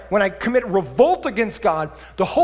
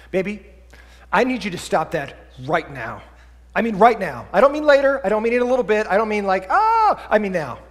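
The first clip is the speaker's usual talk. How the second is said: escalating parent. Retold or imitated. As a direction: lose patience step by step. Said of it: "it escalates".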